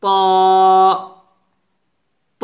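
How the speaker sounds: প said as a heavy "taw"; tongue firmly on upper teeth, প as rounded "taw"; full, dark emphatic T; thick forceful T. Shown as a demonstration. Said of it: "তবে তটা মোটা হয়".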